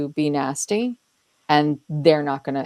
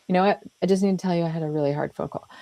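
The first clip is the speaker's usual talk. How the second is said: acknowledging; faster than usual. Acted. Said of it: "That's a different way".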